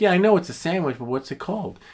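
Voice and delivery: high, loud laughing disbelief; laughing exasperation. Retold or imitated. Retelling the clueless sandwich clerk, laughing high and loud. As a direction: laugh it out, incredulous. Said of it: "I'm like".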